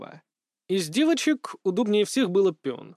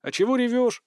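puzzled, higher-pitched question; surprised; 7 semitones higher than usual. A narrator's reading. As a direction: ask in surprise. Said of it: "удивился я".

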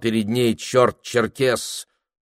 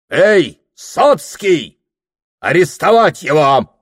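bellowed command, much higher and louder; shouting order; 9 semitones higher, 8 dB louder, slower than usual. A narrator's reading. Police officer yelling for the constable, furious bellow. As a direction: roar for the constable across the room.

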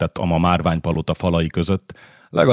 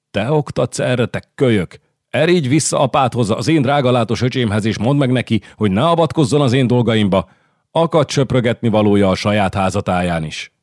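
scornful queen; 5 semitones higher than usual. Acted. Queen berates young count.

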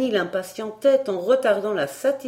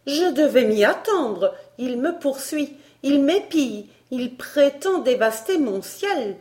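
high, emphatic outraged complaint; indignant; 7 semitones higher, 5 dB louder than usual. A narrator's reading. Miss Barbara accusing the tutor of spying, indignant. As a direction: pile up the accusations, pitched high. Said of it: "s'écria miss Barbara indignée".

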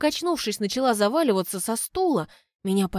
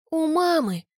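much higher, quick exclamation; blurted; 8 semitones higher, 3 dB louder than usual. A narrator's reading. The girl tells Graham where the daughter is, blurting. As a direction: blurt it out eagerly.

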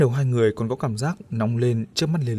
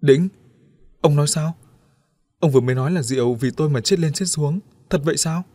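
pressing questions; 4 semitones higher, 4 dB louder than usual. Acted. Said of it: "hỏi dồn dập".

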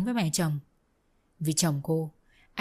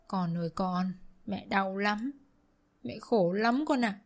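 soft lament; 4 dB quieter, slower than usual. Acted. Mother-in-law lamenting to son.

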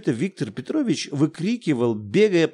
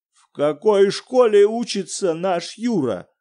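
higher, urgent demand; terrible voice; 7 semitones higher, 5 dB louder than usual. Acted. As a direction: demand it in an awful voice. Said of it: "ужасным голосом". (ужасным голосом, громче)

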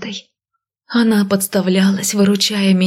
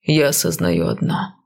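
calm; 3 semitones lower than usual. Acted. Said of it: "Голос Лассы казался таким спокойным".

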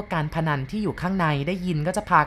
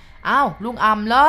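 loud, slow, higher call into the night; calling out from the dark; 5 semitones higher, 6 dB louder, slower than usual. Acted. Farmer calls out from a dark corner, loud and slow. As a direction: shout the question across the dark field. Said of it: "เสียงชาวไร่ร้องถามจากมุมมืด".

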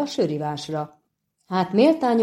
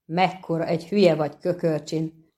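reproachful. Acted. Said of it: "felelte szemrehányóan a félszerzet".

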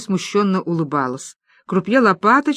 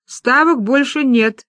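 slow croupier call; 5 semitones higher, 3 dB louder, slower than usual. Acted. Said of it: "объявил крупье".

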